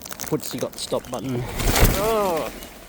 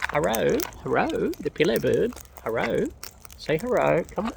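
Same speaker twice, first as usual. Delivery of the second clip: parrot-teaching hello; 5 semitones higher than usual. Real, not acted.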